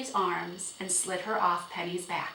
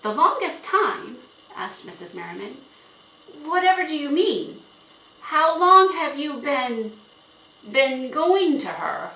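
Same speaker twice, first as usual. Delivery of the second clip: higher, louder, incredulous questioning; astonished mother; 8 semitones higher, 9 dB louder than usual. A narrator's reading. Mother questioning her daughter about the horse, astonished.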